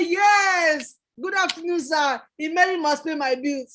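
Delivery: proud cheeky reply, laughing at the end; laughing answer. Retold or imitated. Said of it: "And I will say".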